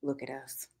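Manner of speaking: soft, hushed and raw; whispered. A narrator's reading. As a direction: breathe it out, broken. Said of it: "he whispered, voice raw and broken".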